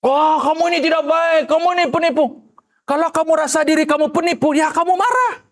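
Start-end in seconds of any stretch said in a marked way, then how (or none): 0.0-2.2 mock accusation. Voicing an accuser.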